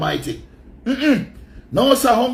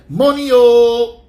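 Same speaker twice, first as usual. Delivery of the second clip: mock Maka voice; 3 semitones higher, 8 dB louder, much slower than usual. Mocking how she talks.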